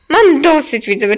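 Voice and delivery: fed up. Pretend. Acts fed up in the game.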